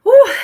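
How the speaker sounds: high, loud "whew" exhale. Real, not acted. Streamer back from getting some water, loud high whew. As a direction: let out a big high-pitched whew.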